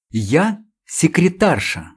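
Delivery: drawn out, proudly composed; dignified. Acted. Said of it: "с достоинством напомнила она".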